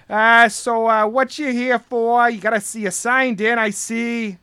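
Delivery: lightly voiced coach, pitched a little up; a hint of big coach accent. Guard questioning a visitor at his desk, coach accent. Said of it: "getting a grip on this accent".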